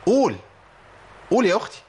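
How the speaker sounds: teacher insisting, calling out; urging call. Real, not acted. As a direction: push her to say it. Teacher urging student to repeat.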